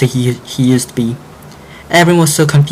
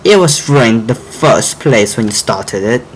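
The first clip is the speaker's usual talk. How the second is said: teasing; slower than usual. Acted. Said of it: "Froggy teased them".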